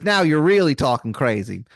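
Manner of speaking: lightly hammed Maryland accent; a touch of bad Maryland twang; Wizard of Baltimore, Maryland accent. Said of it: "this man's accent is something".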